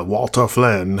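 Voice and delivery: "Walter Flynn" in a badly faked Irish accent, Flynn said like "Flan"; a hammed-up, horrible Irish accent on "Walter Flynn"; mock Irish accent, Flynn as "Flan". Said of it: "that was my horrible Ireland accent".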